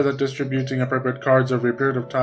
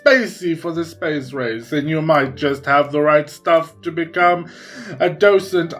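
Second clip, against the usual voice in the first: ad read; 2 semitones higher, 3 dB louder than usual. Acted. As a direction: sell it like a cheesy radio ad. Reads the museum ad aloud.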